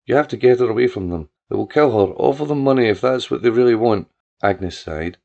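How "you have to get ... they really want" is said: desperate plea. Acted. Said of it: "she cried".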